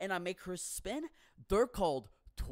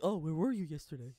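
amused imitation; much faster than usual. Park people's question, laughing.

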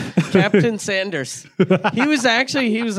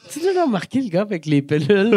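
mock whisper gossip; 3 semitones higher than usual. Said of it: "les autres te remarqueraient".

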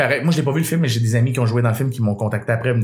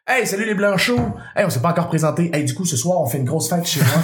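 mock scripted French; 3 semitones higher than usual. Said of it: "Parce que sinon, fallait que je dise".

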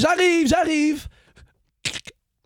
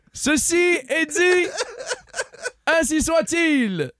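lightly voiced town crier proclaiming; a hint of a medieval herald reading a decree; royal herald.

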